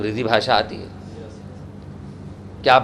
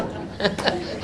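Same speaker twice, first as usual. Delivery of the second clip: demo laugh; 7 semitones higher, 7 dB quieter than usual. Shown as a demonstration. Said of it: "हंसो".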